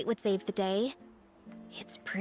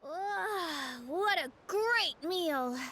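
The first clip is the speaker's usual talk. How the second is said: slow, drawn-out contented groan; satisfied sigh; 3 semitones higher, much slower than usual. Acted. Diner after a great meal, slow and satisfied. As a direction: stretch it out like you are full and content.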